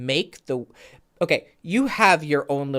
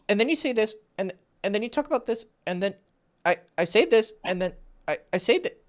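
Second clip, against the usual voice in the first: softer, broken-up imitation of rambling; halting, scattered rambling; 3 semitones higher, 5 dB quieter, faster than usual. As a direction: mimic trailing off between stray thoughts. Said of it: "Here's what you're doing".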